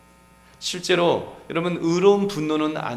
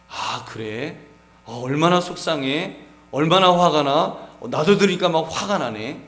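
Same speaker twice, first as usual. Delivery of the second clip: louder, sympathetic outrage on the spouse's behalf; empathetic reply; 3 semitones higher, 6 dB louder than usual. Shown as a demonstration. A husband showing his wife he feels her anger, louder and heartfelt. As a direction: show your spouse you share the anger. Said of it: "공감해 주는 거예요".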